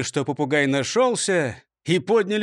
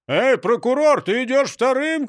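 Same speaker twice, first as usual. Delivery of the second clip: shout; 6 semitones higher, 4 dB louder than usual. A narrator's reading. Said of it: "крикнул другой".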